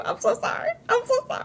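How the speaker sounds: giggly sorry; giggling apology. Real, not acted. Still laughing, apologizing.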